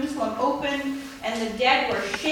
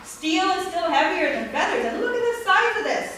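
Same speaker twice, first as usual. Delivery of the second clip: indignant protest; 5 semitones higher than usual. Retold or imitated. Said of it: "He says".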